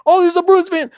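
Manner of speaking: put-on loud, high Italian accent; yelling in an Italian accent. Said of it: "Like in his Italian accent".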